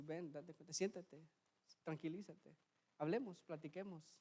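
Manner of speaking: voz suave de invitación a platicar; invitación tranquila. Acted. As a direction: invita con calma, más bajito. God's gentle invitation voiced by preacher. (invitación serena)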